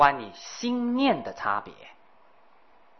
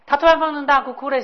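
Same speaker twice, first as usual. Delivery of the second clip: dramatic telling; 11 semitones higher, 8 dB louder, faster than usual. A narrator's reading. Narrates the hag bursting into tears.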